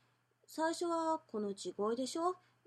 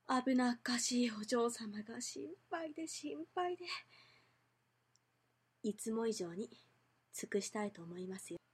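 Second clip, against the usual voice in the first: devoted butler greeting his mistress; 3 semitones lower than usual. Shown as a demonstration. Butler greeting his young lady.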